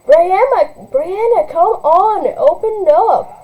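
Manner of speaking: high, loud, pleading call; urgent pleading. Acted. Sister pleading at the locked door, loud and high. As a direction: beg her to open, urgently.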